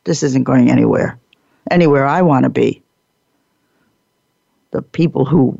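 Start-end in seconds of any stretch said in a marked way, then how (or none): 0.0-2.8 a tired onlooker grumbling under the breath; weary watcher. Retold or imitated. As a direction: mutter it like you've seen this before. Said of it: "the watchers look at each other and say".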